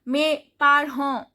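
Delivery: "parents" ending on a vowel; "parents" the French way, consonants dropped; silent final T and S. Shown as a demonstration. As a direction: say "Mes parents" with no T or S. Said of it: "T is not pronounced".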